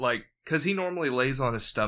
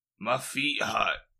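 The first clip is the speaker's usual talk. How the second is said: put-on angry British man accent; 3 semitones lower than usual. Retelling what he muttered in his sleep, put-on angry British man accent. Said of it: "in that accent".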